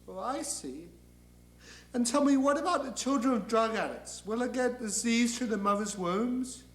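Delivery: polite, probing angel; mild-mannered follow-up question; Gabriel. Acted. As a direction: inquire gently but persistently. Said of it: "And Gabriel says".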